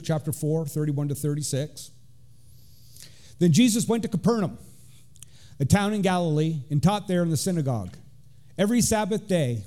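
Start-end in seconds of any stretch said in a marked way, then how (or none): 3.4-9.6 measured Bible reading to the congregation; formal reading of Luke; scripture reading. Acted. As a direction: read the verse out with weight. Reads scripture aloud.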